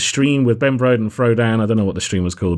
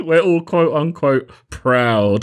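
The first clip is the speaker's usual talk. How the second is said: drawn-out, higher mock pride; sarcastic air quotes; 4 semitones higher, much slower than usual. Shown as a demonstration. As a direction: stretch it out as if making air quotes. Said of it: "inflect it with my voice".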